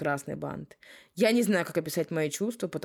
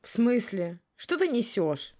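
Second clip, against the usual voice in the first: angry; 6 semitones higher, slower than usual. Acted. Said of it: "Уже злым голосом спросила я".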